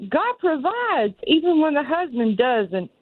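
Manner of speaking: God provides drawn out slowly and pitched high; emphatic declaration. Real, not acted. Caller insisting to the host, slow and emphatic. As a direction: land the moral like a testimony.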